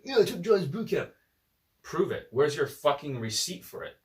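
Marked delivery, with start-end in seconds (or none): 0.0-1.1 mocking imitation. Coach mimicking a man who claims he attended, mockingly. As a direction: parrot the claimant in a silly voice.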